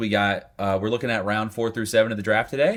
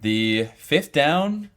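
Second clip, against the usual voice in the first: announcer voice. Acted. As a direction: announce the title like a big show. Announcing the show segment.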